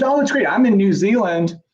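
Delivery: carefree imitation of a lucky colleague; cavalier. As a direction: toss it off like nothing's wrong. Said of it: "she didn't say it that cavalierly".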